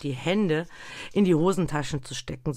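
ordinary delivery, nothing marked

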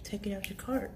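hushed unvoiced whisper. Cashier imitating a customer's whisper. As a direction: whisper it like a secret.

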